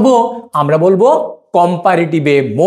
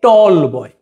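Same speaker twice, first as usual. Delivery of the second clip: very slow, each word spelled out for students; slow dictation; much slower than usual. Shown as a demonstration. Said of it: "তখন আমি বলবো কি". (ধীরে ধীরে বলে দেওয়া)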